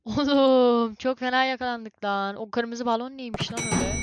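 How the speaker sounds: loud, high frantic yelling; panicked shouting. Real, not acted. Caught by monster, panicking.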